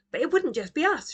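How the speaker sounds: put-on a little girl insisting; insistent child. A narrator's reading. Roo insists.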